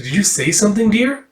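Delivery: lightly voiced sweet old lady, pitch rising high; a hint of a doting old church lady asking dear; high little old lady.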